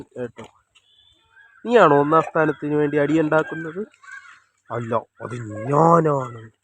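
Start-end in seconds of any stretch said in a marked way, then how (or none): 4.7-6.5 slow put-on bird voice. Voicing a bird's reply.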